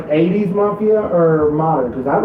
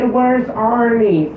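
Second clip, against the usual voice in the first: slow, high imitation of Gilbert; movie quote; 8 semitones higher, much slower than usual. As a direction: drawl the line like the film.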